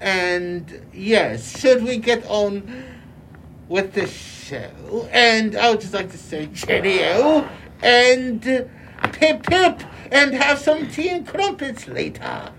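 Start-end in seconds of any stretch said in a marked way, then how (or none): 5.1-12.5 mock British accent. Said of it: "you guys all went and adopted British accents".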